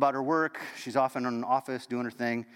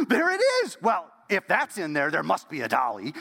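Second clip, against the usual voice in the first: put-on child's shout of joy; 3 semitones higher, 4 dB louder than usual. Ten-year-old Ruth finding the bottle, shouting with joy. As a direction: shout the discovery like a thrilled child. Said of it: "She's like".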